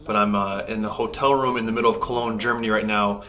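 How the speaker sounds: echoey hotel room sound; big hall echo. Real, not acted. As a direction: voice bouncing off bare walls. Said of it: "sorry about the echoiness in here".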